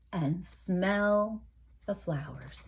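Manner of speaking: soft and drawn out, fading away; softly trailing refrain. A narrator's reading. Reader drifting softly through the bull's favourite pastime, hushed and fading. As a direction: let it drift into a hush.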